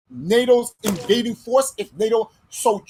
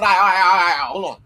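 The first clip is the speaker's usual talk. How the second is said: louder, scrambling all right all right, hold on; hurried mock plea; 4 semitones lower, 4 dB louder, faster than usual. Zelensky imagined begging Putin to wait, loud hurried plea. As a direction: imitate a leader frantically stalling for time.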